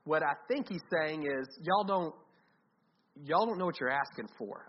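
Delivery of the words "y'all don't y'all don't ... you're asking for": gently, not harshly. Shown as a demonstration. Jesus answering James and John without rebuking them, gently. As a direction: say it as an understanding remark, no rebuke. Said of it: "I think it's more like that".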